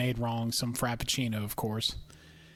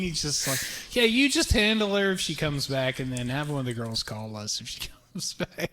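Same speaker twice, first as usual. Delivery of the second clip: mock cop. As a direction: make the officer sound ridiculous, raised up. Mocking the police officer's advice.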